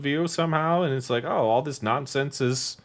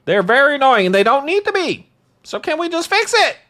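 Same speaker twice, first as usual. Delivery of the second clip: higher and louder, half-yelled comeback; mock exasperated retort; 12 semitones higher, 6 dB louder than usual. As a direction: fire back like you've had enough. Retold retort in heated argument.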